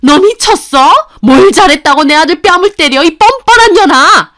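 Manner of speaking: enraged mother-in-law yelling at her son's wife; furious shout. Acted. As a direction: scream it at her like she slapped your son. Mother-in-law attacks daughter-in-law.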